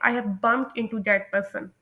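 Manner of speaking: slow, clear closing phrase; slow model sentence. Shown as a demonstration. Teacher slowly modelling a goodbye line. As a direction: say it slowly for learners to copy. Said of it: "तब आप कहते हैं".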